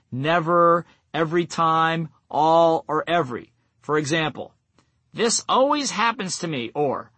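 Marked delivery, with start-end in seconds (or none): 5.1-6.7 higher-pitched self-pitying complaint; lightly acted "poor me" self-talk; mock complaint. Voicing negative self-talk with universal words.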